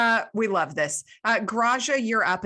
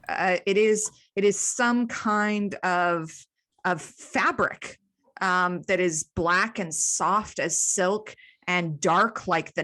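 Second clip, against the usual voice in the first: slow, deliberate scene setting; game master narration; slower than usual. Acted. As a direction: lay out each quality slowly, with weight. Game master describes the fabric.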